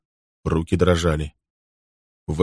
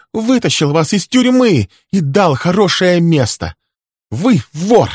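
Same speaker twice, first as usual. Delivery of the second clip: high, loud furious tirade; secretary screaming in defence of her boss; 11 semitones higher, 7 dB louder than usual. Acted. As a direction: keep yelling, no let-up. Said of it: "закричала она".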